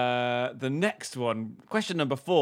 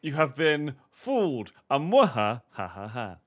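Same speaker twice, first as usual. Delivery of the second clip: mustache twirling villain. Acted. Gloating over fooled contestant.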